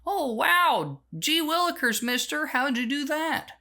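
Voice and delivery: put-on high, wide-eyed 1950s kid voice; gee-whiz kid, all amazed and innocent; wholesome 1950s kid. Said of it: "And the kids would say".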